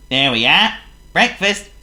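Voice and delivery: loud, high, bright Clumsy hello; cheerful greeting. Acted. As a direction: sing out a happy good morning. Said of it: "said Mister Clumsy".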